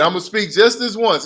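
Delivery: Abraham pushing his luck, said with laughter; laughing. Acted. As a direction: giggle out the line as you say it. Laughing while voicing Abraham.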